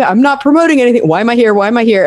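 retold mild panic, rushed at first; mock a flustered protest; freaked out. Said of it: "I was, like, so freaked out".

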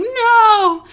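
high, loud acted yell; drawn-out panicked mock shout. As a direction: yell it to stop someone in the act. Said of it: "she runs over shouting".

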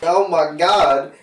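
lightly voiced uppity redneck valley girl. Redneck valley girl mocking Europe, lightly voiced. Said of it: "You redneck and valley girl".

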